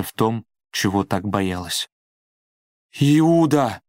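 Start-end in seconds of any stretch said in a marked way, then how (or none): 3.0-3.8 sudden shocked cry of a name. A narrator's reading. Judith finds her brother dead, shocked cry. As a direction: cry out "Иуда!" higher and louder, falling at the end. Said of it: "закричала она потрясённо".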